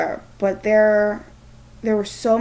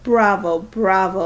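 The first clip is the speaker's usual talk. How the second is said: cheering bravo; 6 dB louder than usual. Acted. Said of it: "clapping his hands".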